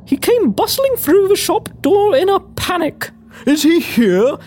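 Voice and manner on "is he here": low-voiced, panicked man; panicked cry. A narrator's reading. A flustered colleague bursts into the shop seeking someone, panicked cry. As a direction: call out low in mild panic. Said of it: "he cried".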